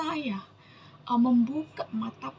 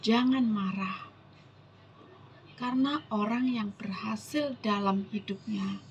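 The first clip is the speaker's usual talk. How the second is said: solemn scripture reading; 3 semitones lower than usual. Acted. Preacher reading God's promise to the congregation, solemn scripture reading. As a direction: read the verse out deliberately.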